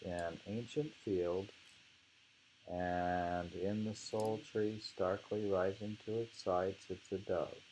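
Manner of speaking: slow, measured poem reading; poem recitation. Acted. Teacher reciting a poem to the class, measured and slow. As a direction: savour each image as you recite.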